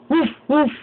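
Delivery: light playful woof; mock dog bark. Shown as a demonstration. Parent showing baby what a dog says, playful woof. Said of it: "What's a doggy say?".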